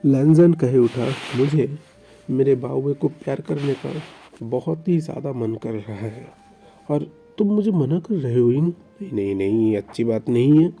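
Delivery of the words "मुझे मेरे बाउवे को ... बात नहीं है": loud, pushy husband; insistent demand. Acted. Lanjan demanding a baby from Oing, loud and insistent. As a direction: press your demand, refusing no.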